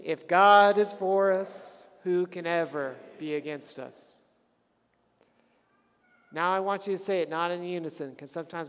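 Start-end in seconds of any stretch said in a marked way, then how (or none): 0.0-4.1 congregation recital. Shown as a demonstration. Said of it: "Say it with me".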